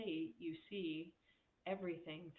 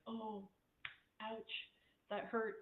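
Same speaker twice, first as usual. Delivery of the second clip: higher, hammed-up hurt whimper; mock wounded; 5 semitones higher, slower than usual. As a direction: parody someone playing the victim. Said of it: "I can make fun of that".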